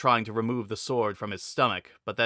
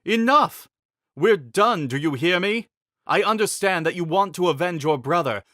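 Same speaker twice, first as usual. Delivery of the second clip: much higher, louder, forceful demand; king's stern loud ultimatum; commanding threat; 7 semitones higher, 5 dB louder than usual. A narrator's reading. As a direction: hold the blade at his throat. King threatens at swordpoint.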